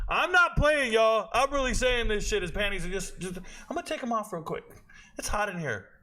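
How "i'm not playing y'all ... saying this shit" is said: higher, louder emphatic protest; loud insistence. Real, not acted. Telling viewers he's serious, loud insistence. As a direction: swear it's true, loudly.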